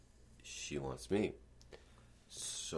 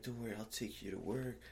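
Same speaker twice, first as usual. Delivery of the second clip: higher-pitched mock reassurance; imitated comforting; 6 semitones higher than usual. Man offering her a ride to work, imitated comforting. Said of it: "I'm like, comforting her".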